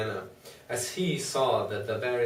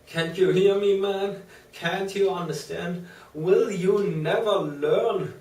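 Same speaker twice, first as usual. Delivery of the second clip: higher, louder frantic begging; desperate pleading; 6 semitones higher, 3 dB louder than usual. A narrator's reading. Patient pleading with the doctor to be heard, desperate higher shouting. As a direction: cry out to be heard, rising in despair. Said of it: "poured forth a torrent of entreaty".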